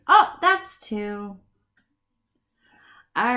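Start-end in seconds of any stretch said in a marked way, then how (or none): 0.1-1.4 put-on child answering. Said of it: "just say".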